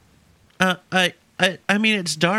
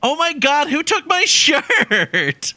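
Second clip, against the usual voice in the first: shocked and laughing; 7 semitones higher, much slower than usual. Acted. Shirt vanished, laughing alarm.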